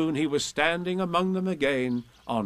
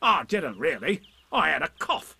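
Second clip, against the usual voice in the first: Tigger; 5 semitones higher than usual. A narrator's reading. Tigger makes excuses.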